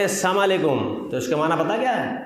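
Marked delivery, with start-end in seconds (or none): 0.0-1.1 السلام علیکم said as "saamalekum"; mispronounced greeting. Shown as a demonstration. Preacher warns of changed meaning, السلام علیکم as "saamalekum". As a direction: shorten السلام علیکم, losing the "la". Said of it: "تو جیسے ہم کہتے ہیں".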